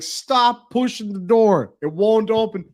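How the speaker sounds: mock exasperated shout. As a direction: act out yelling at a stuck driver. Retold shouting at stuck driver.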